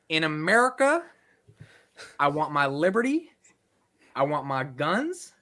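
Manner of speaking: feed it phrase by phrase in American, lifting each end; American accent demo. Shown as a demonstration. Host feeding lines to copy, American accent with rising phrase ends. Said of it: "you need to say".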